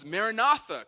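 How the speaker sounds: loud, high cry. Acted. World calling for the Lord to come, crying out. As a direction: cry it out as an urgent plea. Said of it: "It screams".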